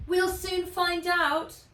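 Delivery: high, loud, slow dragon shout. A narrator's reading. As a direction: shout it over the roar. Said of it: "he shouted".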